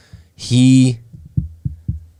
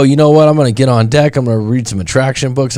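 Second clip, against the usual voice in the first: louder, higher burst of determination; fired-up resolve; 5 semitones higher, 4 dB louder than usual. Acted. Man after a breakup deciding to change, acted fired-up resolve. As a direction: act out deciding to take charge.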